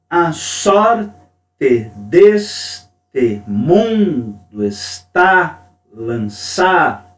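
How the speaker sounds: very slow, each tonic syllable hit hard; extra emphasis on stressed syllables. Shown as a demonstration. Teacher reading a Gonzaga verse to class, stresses exaggerated. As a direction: recite it beat by beat so the students hear the stresses. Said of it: "Eu dei uma ênfase maior para vocês perceberem".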